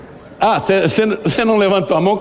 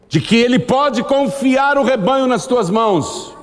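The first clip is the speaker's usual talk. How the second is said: high, slow, emphatic preaching; slow earnest preaching; 8 semitones higher, slower than usual. Acted. Pastor urging leaders to care for the flock, slow and earnest. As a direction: lean on each phrase, pleading.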